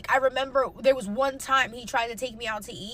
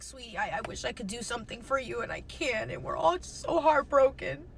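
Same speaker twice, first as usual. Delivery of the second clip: softer, tender mother comforting; gentle mom quote; 3 dB quieter than usual. Retold or imitated. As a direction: soothe like a heartbroken mom. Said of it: "my mom was like".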